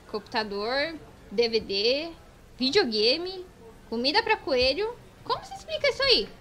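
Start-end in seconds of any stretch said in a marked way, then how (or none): 5.2-6.3 high, loud gotcha accusation; accusing demand. Acted. Customs officer confronting a traveller over a suspicious bag. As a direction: demand an explanation triumphantly. Catching the smuggler.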